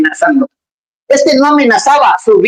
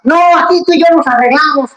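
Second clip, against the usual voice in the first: bargaining Saulo; 6 semitones higher than usual. Acted.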